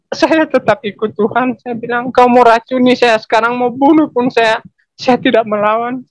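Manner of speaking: defiant. Retold or imitated. Husband telling his wife he will not back down, defiant. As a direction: stand your ground without fear.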